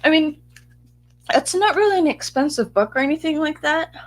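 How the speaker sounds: breathless after rushing back; out of breath. Real, not acted. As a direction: talk while still catching your breath. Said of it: "I'm out of breath".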